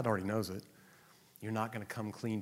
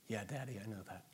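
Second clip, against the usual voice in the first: put-on quiet child-like reply; 3 semitones lower, 10 dB quieter than usual. Child speaking to God.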